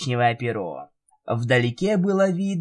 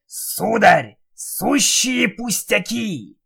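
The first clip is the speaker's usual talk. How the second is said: confident Jigurda voice; 7 semitones higher, slower than usual. Acted. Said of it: "уверенно сказала голова".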